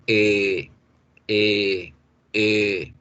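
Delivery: low, held er with rounded lips; long English er. Shown as a demonstration. Teacher sums up the rule, low long er sound. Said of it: "va a ser este sonido".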